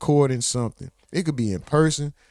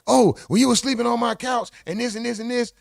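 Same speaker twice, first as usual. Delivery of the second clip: mocking friend; 7 semitones higher than usual.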